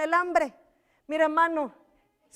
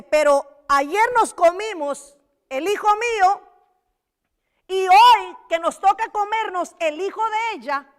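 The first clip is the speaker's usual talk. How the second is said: mother complaining; 4 semitones higher, 6 dB louder than usual. Acted. Mother voiced complaining to king.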